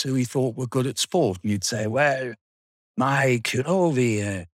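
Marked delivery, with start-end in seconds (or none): 1.9-4.4 lightly imitated smoochy teacher with Swiss accent; butter up a favourite pupil, accented; mildly ingratiating impression of a Swiss teacher; weird smoochy. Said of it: "turn on this weird sort of smoochy thing".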